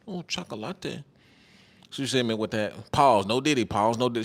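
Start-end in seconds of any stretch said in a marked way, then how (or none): 0.1-1.0 soft, breathy Mexican accent imitation; imitating her accent. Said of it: "hit me with that accent".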